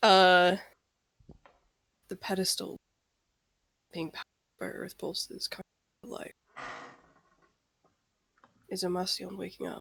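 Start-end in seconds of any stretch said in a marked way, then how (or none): 2.1-9.8 whisper, much quieter. In a tabletop game, a player leans in to whisper to another character: whisper. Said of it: "lean into Claude and whisper".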